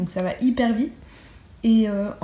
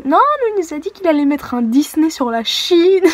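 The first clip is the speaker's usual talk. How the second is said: higher, louder eager classmate; mock classmate; 6 semitones higher, 7 dB louder than usual. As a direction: correct them with glee. Other classmates' side quoted.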